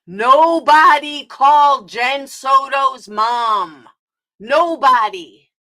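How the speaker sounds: Nobody called Jen Soto's mom shouted very slowly, word by word; talking slow. Real, not acted. Streamer to chat critic, slow mocking shout. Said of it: "Maybe I'll talk slow for you".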